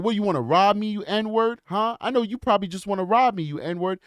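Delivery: acted suspicion, pushed up in pitch; hostile accusation. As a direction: imitate an accusing, hostile stranger. Retold man's hostile accusation.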